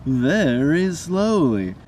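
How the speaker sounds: slow, high, loud mock-Harold voice; crazy voice. A narrator's reading. Friend mocking the doll Harold, crazy slow voice. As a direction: drag it out like a creepy scarecrow. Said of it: "would answer in a crazy voice".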